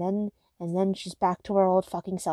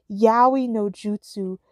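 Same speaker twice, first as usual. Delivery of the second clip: mock anime attack call; 3 dB louder, slower than usual. Mock anime jutsu calls.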